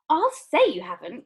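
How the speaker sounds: loud indignant cry. A narrator's reading. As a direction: cry out in outrage. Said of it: "cried Missus Beauregard".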